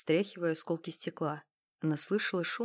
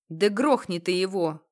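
loud urging; 8 dB louder than usual. Acted. Thug urges killing.

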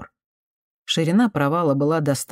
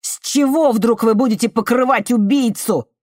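high, loud furious shout; young man screams his accusation in a cave; 8 semitones higher, 5 dB louder than usual. Acted. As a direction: yell it straight at her. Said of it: "крикнул Артемий".

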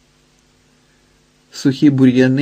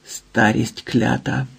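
slow, soft and bitter curse; quiet fury; 4 dB quieter, slower than usual. Acted. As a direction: mutter it slowly under your breath, furious. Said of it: "прошепотів люто".

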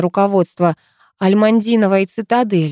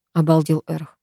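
usual speaking voice

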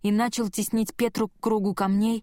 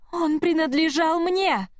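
high, slow, inhuman wail; demonic shriek; 8 semitones higher than usual. A narrator's reading. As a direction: scream it like a possessed thing. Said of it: "завопила Петра".

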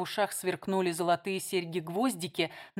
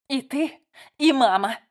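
bursting accusation; 5 semitones higher, 8 dB louder than usual. Acted.

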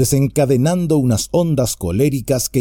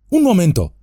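higher sudden call, a mild shout; 7 semitones higher than usual. Acted. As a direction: stop them short with an idea. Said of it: "gritó Sam".

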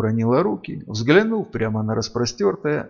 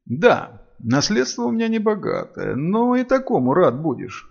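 defiant; 7 semitones higher than usual. A narrator's reading. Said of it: "с вызовом бросила Сильвия".

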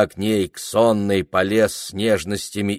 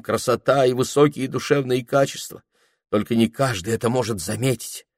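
ardent speech; 5 semitones higher, 3 dB louder than usual. Acted. Clerk's flowery love speech.

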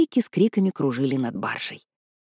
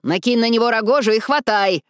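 shouting; 5 semitones higher, 3 dB louder than usual. Acted. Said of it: "прокричала мистерис Бессел".

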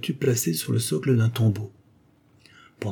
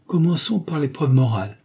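ironic tone; 6 semitones higher, 4 dB louder than usual. A narrator's reading. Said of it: "sur le même ton ironique".

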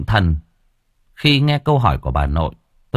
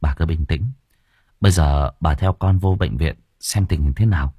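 put-on calm the frightened old woman; reassuring; 5 semitones lower than usual. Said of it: "trấn an".

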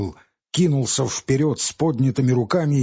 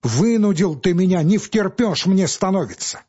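last desperate plea rising in pitch; in despair; 5 semitones higher, 3 dB louder than usual. Acted. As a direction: beg and threaten at once. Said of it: "заговорил Павел с отчаянием".

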